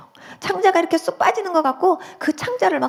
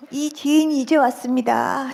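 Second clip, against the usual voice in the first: slow, drawn-out recited prayer line; 어색한 첫 기도; slower than usual. Retold or imitated. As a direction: recite it slowly like a first-time prayer. First prayer, recited slowly. (느리게 늘여 읊는 첫 기도)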